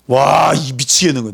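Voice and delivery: exasperated outburst. Acted. A leader fed up with the complaints, exasperated outburst. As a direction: throw it out like you're at your wits' end.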